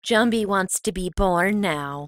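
a hint of a creepy child, slow; creepy kid line. Cohost quoting the creepy child as the shot's toast, slowly. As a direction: intone it slowly like the eerie kid. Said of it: "you stare at each other and you say".

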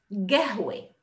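قهوة said gahwe with a hard g; teacher modelling the Bedouin form to repeat. Shown as a demonstration. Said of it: "Repeat after me".

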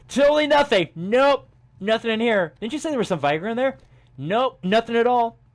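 high, loud exaggerated denial; high mock innocence; sarcastic. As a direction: lay the sarcasm on thick, laughing.

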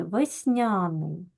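Весняний said slowly with the stress on -ня-; slow, careful teacher's stress on Весняний. Shown as a demonstration. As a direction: stretch Весняний out, leaning on the a. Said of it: "не забуваємо про наголос весняний".

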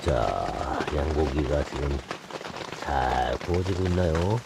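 slow, low market hawker pitch; medicine peddler. Acted. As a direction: drawl it like a snake-oil salesman. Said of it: "약장수 말투 같았습니다".

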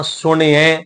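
ਸੁਣਿਐ with a short i after the ṇ. Shown as a demonstration. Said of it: "ਨਾਨੀ ਨੂੰ ਸਿਹਾਰੀ ਸਹਿਤ ਉਚਾਰਿਆ".

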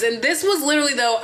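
ordinary talk, nothing marked

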